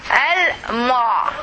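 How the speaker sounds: "Al-mu'" in two parts, ending on the throat sound ain; correct final ain. Shown as a demonstration. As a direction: model "Al-mu'" with a clear closing ain. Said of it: "you can pronounce it correctly".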